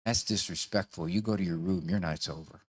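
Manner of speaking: quiet, low, even parental firmness; unruffled parent sending a child away; calm tone of voice. Shown as a demonstration. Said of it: "calm tone of voice".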